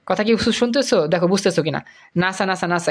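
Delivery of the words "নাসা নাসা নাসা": "নাসা" as a single smooth word; said as one word. Shown as a demonstration. Teacher shows NASA becomes easy to say, as one word. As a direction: repeat "নাসা" as a word, not as letters. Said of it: "এটা কিন্তু হয়ে যায়".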